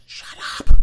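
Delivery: short, loud burst; exasperated mock yell; mock angry shout. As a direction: shout it to cut off the chatter. Mocks chattering soccer players, cuts in.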